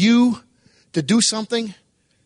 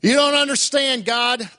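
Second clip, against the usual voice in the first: desperate plea; 5 semitones higher than usual. Retold or imitated. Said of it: "Finally gets to his last-ditch effort".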